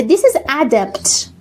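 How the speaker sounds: adept said AE-dept with open first vowel. Shown as a demonstration. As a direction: contrast adept with adapt. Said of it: "Adept means expert".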